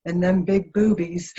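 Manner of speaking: slow, flat, lightly voiced monotone; John's monotone voice. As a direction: say it slow and even, no emphasis. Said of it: "and he says".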